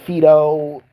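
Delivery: loud, high broken fake Spanish words; mock stupid Spanish. Teasing the teacher in class, loud broken mock Spanish. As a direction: toss out random Spanish words badly. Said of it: "speak to her in really stupid Spanish".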